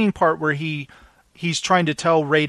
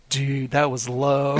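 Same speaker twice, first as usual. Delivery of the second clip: mock reproach; 3 semitones lower, slower than usual. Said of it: "and he's like".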